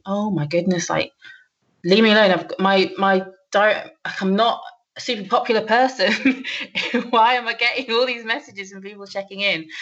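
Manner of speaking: a mock exasperated outburst, half laughing. Recalling an ex-manager's message, in mock exasperation. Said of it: "And it's like".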